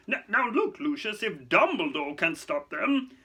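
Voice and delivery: high, loud, agitated protest; flustered. Acted. Fudge pleading with Lucius, flustered. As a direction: argue in mounting panic. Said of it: "upper lip was sweating".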